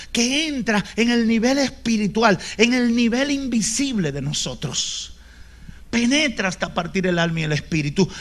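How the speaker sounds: usual speaking voice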